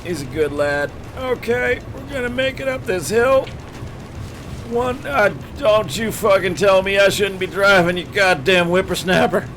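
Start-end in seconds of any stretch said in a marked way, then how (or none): 1.2-9.5 put-on higher, cranky old-man voice, lightly done; a stubborn grandpa refusing to give up the wheel; old geezer. Old geezer snaps at the kid about driving, cranky. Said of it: "legally distinct from Grandpa Dunley".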